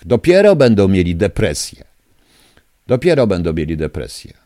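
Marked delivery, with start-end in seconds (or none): 0.0-1.8 loud vow. Real, not acted. Caller vows revenge on officials.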